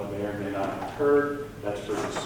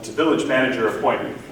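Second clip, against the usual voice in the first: louder and quicker, repeating it; to someone hard of hearing; 4 semitones higher, 9 dB louder, faster than usual. Real, not acted. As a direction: raise your voice for a listener on the line. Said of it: "I didn't hear you".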